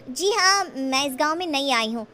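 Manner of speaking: a hint of coy shyness; shy young woman.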